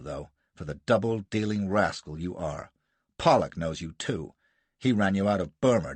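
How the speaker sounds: lightly voiced American tirade; accusing harangue. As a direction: pile up the charges, jeering. Gardner haranguing Jasser.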